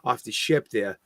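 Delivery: mock local guide with a Boston accent; Boston tour guide. Local showing visitors the Freedom Trail, mock Boston guide. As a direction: show them round in thick Bostonian. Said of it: "Bostonian accent was so thick".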